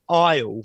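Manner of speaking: "aisle" as a long eye-ul sound; clear "aisle" ending. Shown as a demonstration. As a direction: isolate the ending of "fragile" as "aisle". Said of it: "and it's aisle".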